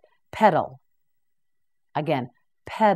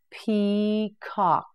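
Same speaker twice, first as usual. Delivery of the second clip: Peacock drawn out slowly, each syllable clear; slow, stretched model; 3 semitones higher than usual. Shown as a demonstration. Teacher modelling Peacock slowly for learners. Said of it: "teacher models the word slowly".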